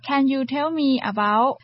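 slow model sentence. Shown as a demonstration. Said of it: "อย่างเช่นแก้ววันนี้อยากจะถามข้อมูลเรื่องกล้องถ่ายรูป".

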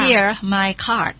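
slow, careful English; slow teacher model; slow model reading. Shown as a demonstration. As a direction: hand it over slowly. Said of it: "บิลก็บอกว่า".

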